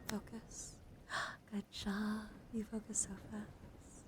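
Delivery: hushed ASMR praise, very soft; soft whisper. Acted. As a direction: breathe it softly like a focus trigger. ASMR focus trigger, praise.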